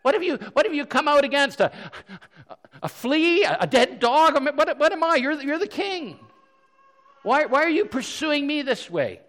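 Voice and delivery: acted incredulous appeal, pitched well up; deferential pleading. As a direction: plead with a king, bewildered and humble. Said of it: "his deference to Saul".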